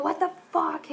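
high, loud mock outburst; exasperated boyfriend. Boyfriend reacting to banging at the door, mock exasperation. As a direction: imitate a fed-up boyfriend jolted awake.

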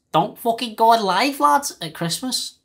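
put-on Scouse accent. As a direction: slip into Scouse for a telling-off. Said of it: "Don't know why I went Scouse there".

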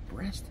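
"Brest?" tried French-style with a high questioning rise; trying French Brest. Shown as a demonstration. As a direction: test "Brest?" the French way, unsure and rising. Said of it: "How do you say that?".

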